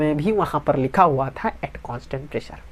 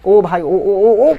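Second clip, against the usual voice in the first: grab the class's attention with a call; 3 semitones higher, 4 dB louder, much slower than usual. Real, not acted. Teacher calling out to get distracted students' attention, loud.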